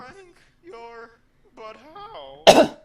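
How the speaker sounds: high, loud shocked cry; a mother stunned to find her son. Acted. Betty shocked in story.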